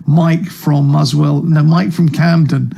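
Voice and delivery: Ian's character. Retold or imitated. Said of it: "as his only character".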